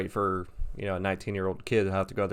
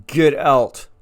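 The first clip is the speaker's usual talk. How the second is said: loud, raised-pitch order to leave; retold yell; 5 semitones higher, 11 dB louder than usual. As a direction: act out yelling him out the door. Yelling at Willie to leave.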